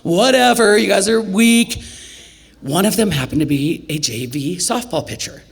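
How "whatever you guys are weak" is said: trash talk. Retold or imitated. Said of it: "talking some smack about it".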